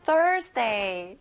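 "Thursday" with a strong THUR at the front; stress on first syllable. Shown as a demonstration. Teacher modelling it for children to repeat, "Thursday" stressed on THUR. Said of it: "앞에 thir 강조해보세요".

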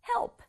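help as a single syllable with a soft p release; light final P. Shown as a demonstration. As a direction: finish help on a tiny puff of p. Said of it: "이렇게 소리 내주세요".

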